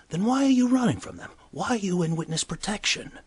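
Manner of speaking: pressing question. Retold or imitated. Bartender presses Gordon.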